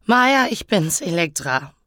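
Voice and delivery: acted tearful plea, falling away; tearful sniffling. Elektra leaving her sister a mailbox message, tearful. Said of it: "schniefte ich zwischen zwei Schluchzern".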